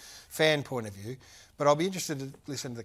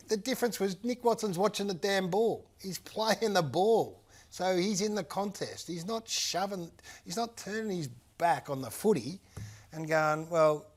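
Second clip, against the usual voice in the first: passionate; 5 semitones higher than usual. Real, not acted. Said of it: "I know I get a bit passionate about this".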